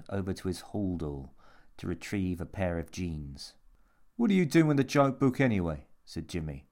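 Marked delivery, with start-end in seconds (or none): 4.1-5.9 put-on cocky young man. A narrator's reading. Jimmy cocky question.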